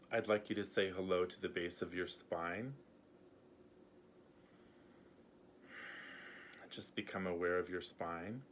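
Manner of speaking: gently guiding, unhurried with long pauses; guided meditation. Acted. Healer guiding viewers to let go, calm meditation voice. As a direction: lead a grounding exercise, leaving room to breathe.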